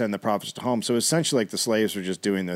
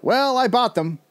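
mocking slave buyer; 6 dB louder than usual. Retelling the buyer taunting Thomas, high sneering mock voice. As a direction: draw out old man like a smug buyer taunting.

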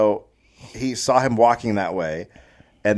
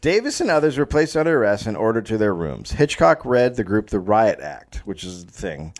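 measured, read-aloud storyteller delivery; story narration. A narrator's reading. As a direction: narrate the tale from the page.

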